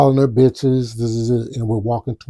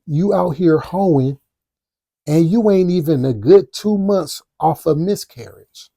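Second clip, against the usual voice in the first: cutting insult; 4 semitones higher, 3 dB louder than usual. Retold or imitated. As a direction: lean into each word to wound. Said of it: "I said".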